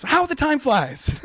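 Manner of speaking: high-pitched, drawn-out exclamation; hammed-up nervous cry; freaked-out townsperson. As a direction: blurt a flustered excuse, slowly stretched. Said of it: "freaks out".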